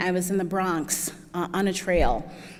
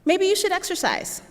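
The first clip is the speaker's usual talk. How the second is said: doctor's voice; 11 semitones higher than usual. Retold or imitated. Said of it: "they would ask me".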